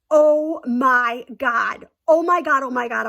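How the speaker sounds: loud, stretched "oh my God"; reliving the moment of dread; mock horror. Realizing own mistake.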